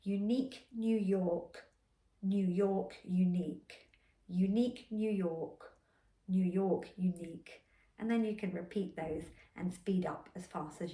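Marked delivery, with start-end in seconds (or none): 0.0-7.7 slow careful twister. Shown as a demonstration. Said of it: "for the back of the mouth".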